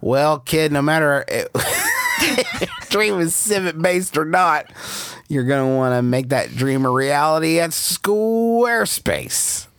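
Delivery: put-on laughing showman talking to a kid; a hint of a fast-talking agent; showbiz agent voice. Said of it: "like a Mickey Rooney type".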